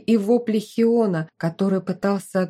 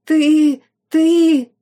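much higher, louder bleat; shrieking goat bleat; 9 semitones higher, 8 dB louder than usual. A narrator's reading. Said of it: "заблеял сын маркиза".

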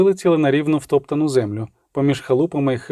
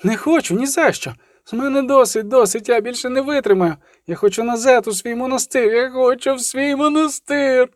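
hysterical outburst; 9 semitones higher than usual. A narrator's reading. Hysterical girl refuses, crying.

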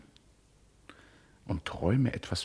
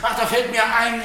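chuckling, pitched higher and louder; amused afterthought; laughing aside; 12 semitones higher, 7 dB louder than usual. Acted. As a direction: toss it off with a laugh. Cheerful aside over letters.

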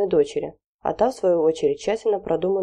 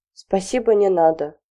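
offended; 2 semitones higher, 4 dB louder than usual. Acted. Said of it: "обиделась на родителей".

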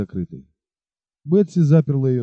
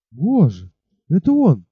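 excited gasp; 2 semitones higher, 4 dB louder, slower than usual. Acted. Бет видит любимого.

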